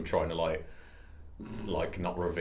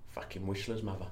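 softly muttered Cockney; 9 dB quieter than usual. Acted. Repeating it to check it sounds Cockney, softly in Cockney. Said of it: "That sounds like Cockney".

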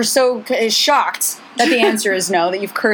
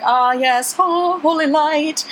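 mock priest; 6 semitones higher, slower than usual. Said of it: "and he's like".

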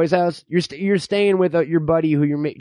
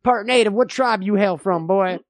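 lightly voiced distrustful old-timer; folksy backwoods codger spinning tales; old man; 2 semitones lower than usual. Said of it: "I'm the old man".

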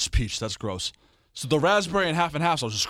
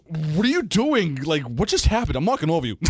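mock incredulous scolding, higher at first; imitating brother; 4 semitones higher, 4 dB louder than usual. Brother stepping over his fallen sibling, mock exasperation. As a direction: draw out the opening question in disbelief. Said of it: "My brother goes".

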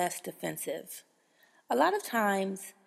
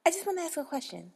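higher, fast pushy customer; 7 semitones higher, faster than usual. Retold or imitated. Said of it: "come up and say".

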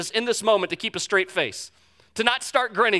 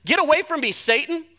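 forceful rebuke; 7 semitones higher than usual. Retold or imitated. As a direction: throw "Get away from me, Satan" out hard. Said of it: "this is his friend".

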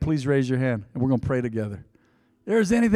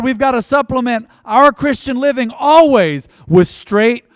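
fervent prayer; 2 semitones higher than usual. Acted. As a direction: pray with building fervor. Preaching prayer.

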